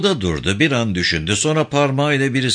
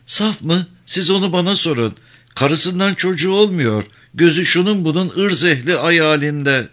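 lightly voiced woman, pitched higher; a hint of a scornful wife, higher; 5 semitones higher than usual. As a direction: scoff and gossip in a lifted pitch.

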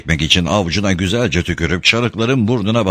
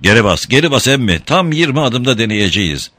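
thundering; 3 semitones higher than usual. Acted. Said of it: "gürledi".

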